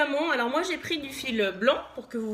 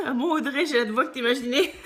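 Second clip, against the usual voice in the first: laughing; 2 semitones higher, 4 dB louder, faster than usual. Real, not acted. Reading a viewer's comment live.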